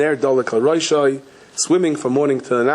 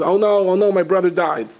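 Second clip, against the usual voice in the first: high, lightly raised wail of alarm; mock dismayed yell; 5 semitones higher than usual. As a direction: cry out as the bereft brother, storyteller-style. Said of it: "the brother that's inside yells".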